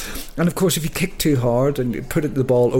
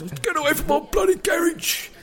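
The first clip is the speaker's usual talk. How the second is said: grumpy neighbour shout. Retold or imitated. Old garage owner shouting at kids playing football, angry yell. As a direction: bellow it at the kids off your lawn. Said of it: "these grumpy old gods".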